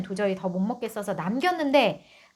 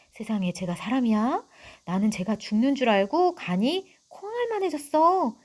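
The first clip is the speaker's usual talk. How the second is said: lightly voiced chatty neighbour woman, a bit higher; gossiping village mother; 3 semitones higher than usual. Teacher reading the neighbour mother's gossip to the class, lightly voiced. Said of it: "지금부터는 이제 개똥 어머니가 하는 얘기예요".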